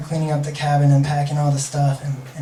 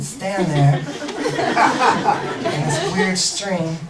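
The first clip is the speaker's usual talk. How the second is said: laughing; 4 semitones higher, much slower than usual. Real, not acted. Laughing mid-quote about a silly plan.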